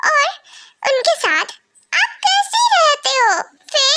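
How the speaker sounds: mimicking dad. Daughter mimicking dad's complaint.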